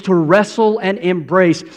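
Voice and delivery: wrestle said as rassle, Southern style; Southern drawl. Shown as a demonstration. Preacher jokes about Southern folks, wrestle as rassle. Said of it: "or if you're from the South".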